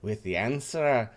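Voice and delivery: a fussy French host warning of the paladin; French accent. Acted. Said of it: "trying to figure out his accent".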